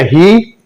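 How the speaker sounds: ही with a long "ee". Shown as a demonstration. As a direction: hold the vowel in ही. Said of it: "long sound में". (ही में लंबी ई)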